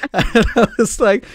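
loud, high laughing through words; laughing hard. Real, not acted. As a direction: crack up mid-sentence.

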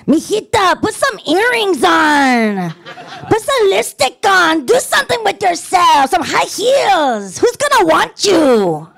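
high, insistent Mexican grandmother scolding; high slow nagging grandmother with a Mexican lilt; Mexican grandma. Retold or imitated. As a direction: nag like a bossy Mexican abuela. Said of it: "this little Mexican lady".

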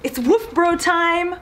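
peppy dog-sitter hello; chirpy dog greeting. Acted. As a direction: greet the dog in a high, playful voice.

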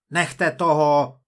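loud, slow, exasperated order; irritated shout. A narrator's reading. Sims fed up with the couple's denials, irritated shout. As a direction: raise your voice in irritation. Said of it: "zařval Sims popuzeně".

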